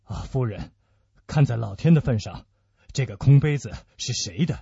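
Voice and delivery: low, grave, pressing question; deep, anxious plea; urgent questioning. Acted. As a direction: press for an answer with dread. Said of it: "阿多斯赶紧问道".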